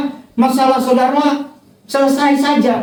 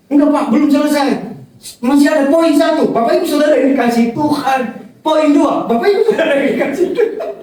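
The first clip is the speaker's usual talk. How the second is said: mock-nervous rookie preacher, higher and hurried, breaking into laughter; insistent novice preacher; 4 semitones higher than usual. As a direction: imitate a flustered beginner rattling on. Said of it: "Waktu awal-awal saya khotbah". (meniru pengkhotbah pemula yang gugup sambil tertawa)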